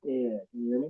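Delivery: muffled voice, like through a wall. Real, not acted. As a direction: sound muffled and far off. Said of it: "Bro, you sound muffled as hell".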